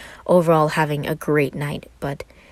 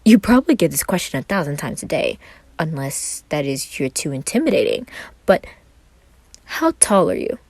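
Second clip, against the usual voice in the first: Roman, bright and flirty. Acted. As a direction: play the small charming Roman. Roman's lines again.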